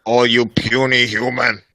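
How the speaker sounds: loud, slow giant voice; booming frost giant. Retold or imitated. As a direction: boom it out like a giant.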